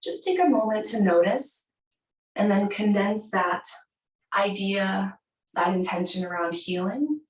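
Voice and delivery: unhurried yoga nidra guidance with long pauses; guided meditation. Acted. Yoga teacher guides class to find an intention, measured meditation voice. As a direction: guide them inward, phrase by phrase.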